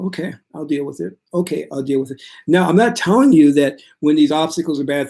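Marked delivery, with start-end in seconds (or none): 0.1-2.2 calm acceptance. Shown as a demonstration. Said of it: "to be centered to where when things happen, you go".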